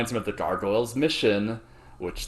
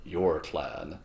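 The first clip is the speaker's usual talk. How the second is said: a touch of sad; 6 semitones lower, 11 dB quieter, slower than usual. Retold or imitated. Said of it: "he looks a little sad".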